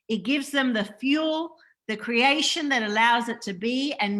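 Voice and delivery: measured, emphatic read-out; reading aloud a message. Acted. Reads out a channelled message.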